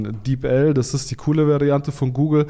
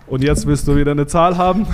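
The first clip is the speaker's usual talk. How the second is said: laughing; 5 dB louder than usual. Real, not acted. Teasing host who wants numbers.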